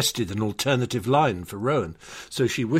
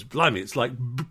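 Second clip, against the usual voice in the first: Blimey stammering on the B of Battersea; a mild retold stutter on B-, B-, Battersea; stuttered line; 3 semitones higher than usual. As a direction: catch and repeat the B of B-, B-, Battersea. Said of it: "he can only just get it out".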